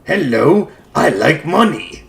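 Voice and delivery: lightly done crab captain voice; a hint of a greedy cartoon captain; Mister Krabs voice. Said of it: "that time I was intentionally trying to be Mister Krabs".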